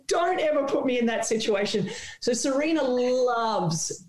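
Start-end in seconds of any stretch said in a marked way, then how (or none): 0.1-1.9 raised, higher playful shout; mock scolding shout. Reporter scolding the star in fun, raised mock shout. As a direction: scold her half-laughing. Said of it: "I said".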